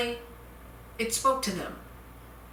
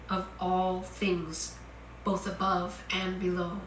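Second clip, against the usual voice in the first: solemn scripture reading. Acted. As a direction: read it like scripture, weighty and unhurried. Reads Saint John quotation.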